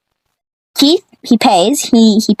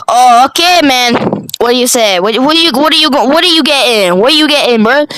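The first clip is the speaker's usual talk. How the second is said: high cashier voice; 5 semitones higher than usual. Retold or imitated.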